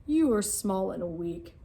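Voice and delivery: booming king of the jungle, amused; mocking lion. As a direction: lord it over the little mouse. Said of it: "Lion roared with laughter".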